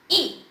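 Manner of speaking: short ई, said lightly; krótkie i. Shown as a demonstration. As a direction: say ई briefly, without drawing it out. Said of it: "हम उसे धीरे से बोलेंगे".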